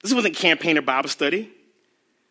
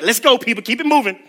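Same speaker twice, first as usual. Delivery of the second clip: a touch louder hurry-up call; impatient Peter; 2 semitones higher, 4 dB louder than usual. Retold or imitated. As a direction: keep the crowd moving, impatient. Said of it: "Peter couldn't wait".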